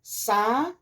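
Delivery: SABIÁ split into sa, bi, á with long pauses; syllable by syllable. Shown as a demonstration. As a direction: break "sabiá" into three slow syllables. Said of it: "Vamos separar as sílabas".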